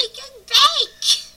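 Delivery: slow, high, loud exclamation; loud drawn-out shout. Pretend. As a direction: bellow it out slowly. Jokey correction of show name.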